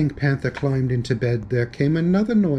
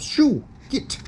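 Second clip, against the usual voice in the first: shooing shout; 11 semitones higher than usual. Acted. Ghost shooing him away.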